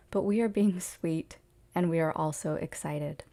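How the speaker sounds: measured, formal reading aloud; lightly formal recital in even, phrased sentences; channeled message reading. Acted. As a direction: read it out as a message from spirit guides.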